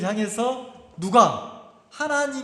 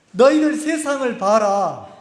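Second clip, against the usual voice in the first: God's command; 5 dB louder than usual. Acted. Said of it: "뭐라고 합니까?".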